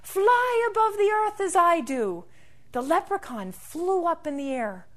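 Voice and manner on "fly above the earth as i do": high-pitched bird voice. Acted. Bird inviting the leprechaun to fly, high-voiced. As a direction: beckon in a high, airborne voice. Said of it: "And the bird said".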